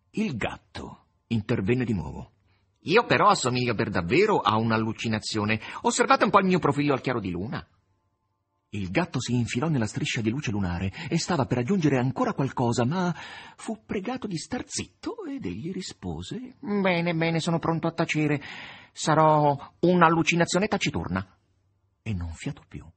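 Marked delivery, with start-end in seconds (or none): 2.8-7.6 a cheeky cat's voice, a touch louder; playful talking cat showing off its profile; sly cat voice, quick on the last line. Acted. The cat speaks. 16.6-21.4 higher, louder cat voice, mock obliging; hammed-up cat promising silence.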